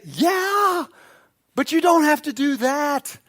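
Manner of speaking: pitched well up, lightly acted comeback; imagined Jesus retort. Jesus answers people's excuse.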